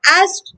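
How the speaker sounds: "asked" as ASST with the K silent; American pronunciation. Shown as a demonstration. Teacher modelling the American way, K silent. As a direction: drop the K in "asked". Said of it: "So it sounds like".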